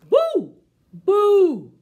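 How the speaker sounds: loud, high ghostly boo; big spooky pumpkin boo. Acted. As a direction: boom it out to scare the kids. Pumpkin head scares her.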